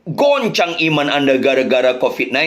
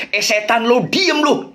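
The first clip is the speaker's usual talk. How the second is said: angry retort; 6 semitones higher than usual. Retold or imitated. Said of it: "suaminya marah".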